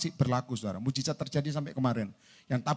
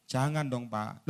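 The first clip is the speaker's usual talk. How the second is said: meek plea; 5 semitones lower, 5 dB quieter, slower than usual. Retold or imitated. Member pleads with the preacher.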